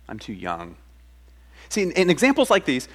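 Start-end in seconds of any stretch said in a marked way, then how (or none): 0.1-0.8 soft, shrinking little excuse; mild timid excuse. Retold or imitated. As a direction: say it like a small boy shying away. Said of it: "Alas, sovereign Lord".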